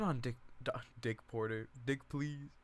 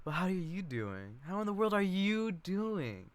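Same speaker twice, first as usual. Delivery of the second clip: lightly voiced fussy cousin, gushing; a hint of a nosy cousin fawning over Doc; Chick; 7 semitones higher than usual.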